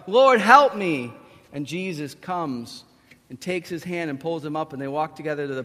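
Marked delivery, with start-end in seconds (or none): 0.1-1.1 loud, drawn-out acted cry; crying out for help. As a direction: call out slowly for rescue. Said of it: "he cries out".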